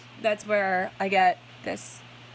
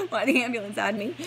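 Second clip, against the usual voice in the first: real tears breaking through the words; crying; 3 dB louder than usual. Real, not acted. Tearful retelling of abuse.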